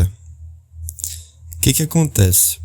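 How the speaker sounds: slow words stretched by a yawn. Real, not acted. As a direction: talk through a big yawn. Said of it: "Vou bocejar de novo".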